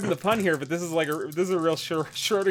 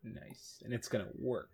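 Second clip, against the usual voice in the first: whispering; 7 semitones lower, 15 dB quieter than usual. Real, not acted. Whispered aside during invisibility.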